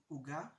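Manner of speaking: "uga" stressed on the last syllable; oo-GA, the standard way; final stress. Shown as a demonstration. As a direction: land on the GA of "uga". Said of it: "there's a joke in Hebrew".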